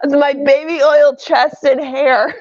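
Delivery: put-on Scottish accent. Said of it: "you gotta do the Scottish accent".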